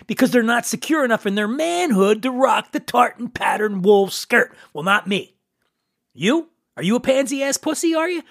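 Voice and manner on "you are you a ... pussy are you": mock taunting challenge. Taunting the audience.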